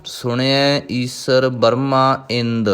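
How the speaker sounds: slow, drawn-out devotional chanting of each word; slow Gurbani recitation. Acted. Teacher reciting Japji Sahib for students, slow devotional chant. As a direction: intone every syllable slowly and reverently.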